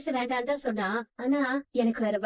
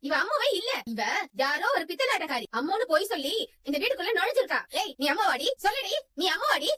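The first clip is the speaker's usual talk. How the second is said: raised, higher accusing voice; heated accusation; 4 semitones higher than usual. Acted. Mother accuses the girl before Nachiyaramma, heated and higher. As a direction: expose the impostor, insistent.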